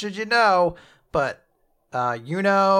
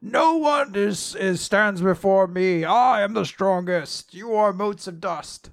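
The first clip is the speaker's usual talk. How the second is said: arrogant demon king; 4 semitones higher, 4 dB louder than usual. Retold or imitated. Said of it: "And he's just like".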